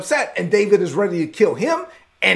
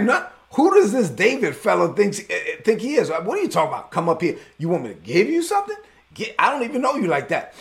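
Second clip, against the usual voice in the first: nasty dude; 3 semitones higher than usual. Retold or imitated. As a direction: lightly play an offended, scornful man. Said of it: "he's a nasty dude".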